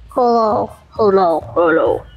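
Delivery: trying out a voice. Shown as a demonstration. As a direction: hunt for a character voice, dropping in pitch. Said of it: "I forget how to do his voice".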